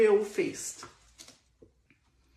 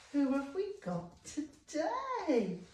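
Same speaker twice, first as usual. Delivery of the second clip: mock curious; 7 semitones higher, 5 dB quieter, much slower than usual.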